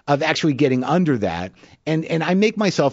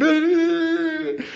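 imitated sob. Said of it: "blubbering like a little baby".

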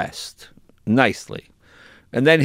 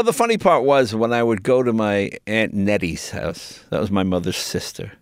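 usual speaking voice

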